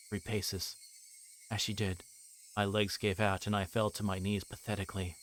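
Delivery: low, even narrator voice for the novel; story narration. A narrator's reading. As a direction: read it out like the book's narrator. Reads visual novel narration.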